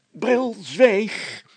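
mayor snaps at Bril to hush; sharp call to silence. A narrator's reading. Mayor silences Brilstra, calling out sharply. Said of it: "riep de burgemeester".

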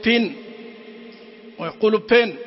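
بين said first with an English short i, then with a long ee; English vowels. Shown as a demonstration. Teacher imitating how English speakers say بين. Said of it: "يقولوا إيش؟".

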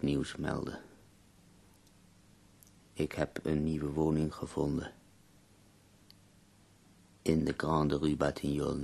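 measured dictation, pauses between phrases; dictating a letter. Acted. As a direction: dictate evenly, leaving time to write. (dicterend, bedachtzaam)

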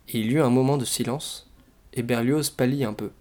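expressive, lively read-aloud with animated dialogue; story narration. A narrator's reading. Reader sharing a comic Russian novel, expressive storytelling. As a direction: read the novel out with theatrical phrasing.

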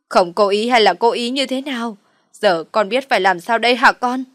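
mother tearfully demanding what her daughter will do now; loud tearful lament. Acted. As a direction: wail it through fake tears. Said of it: "Bà Loan cũng sụt sịt khóc".

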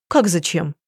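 usual speaking voice

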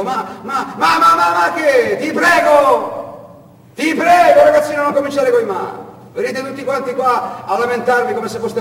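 high, loud exasperated smuggler shouting; bullying smuggler. Acted. Ciccione shouting down Marwan's protests, high and loud. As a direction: cut the boy off.

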